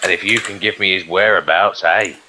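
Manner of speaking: low, quiet gangster threat; menacing thug. Acted. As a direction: lean in and threaten softly.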